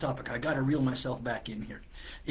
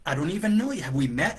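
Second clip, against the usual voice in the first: indignant disbelief; 5 semitones higher than usual. Retold or imitated. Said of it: "I'm thinking".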